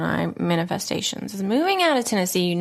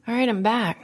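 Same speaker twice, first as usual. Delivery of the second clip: ordinary talk, nothing marked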